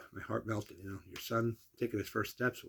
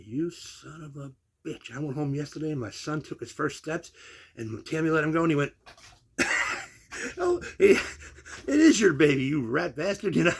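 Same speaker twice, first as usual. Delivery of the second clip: mock fury; 6 semitones higher, 7 dB louder than usual. Mock-furious confrontation then reveal joke.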